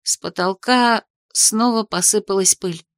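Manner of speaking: plain reading voice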